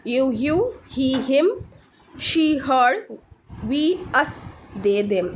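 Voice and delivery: slow, evenly spaced word pairs; deliberate pronunciation drill; repeat-after-me drill. Shown as a demonstration. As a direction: pause after each pair for learners. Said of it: "আমার সাথে repeat করার চেষ্টা করবেন".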